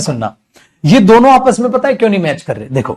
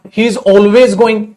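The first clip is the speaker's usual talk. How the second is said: slow dictation; much slower than usual. Shown as a demonstration. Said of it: "भाई अब इसका मतलब क्या हुआ बेटा?".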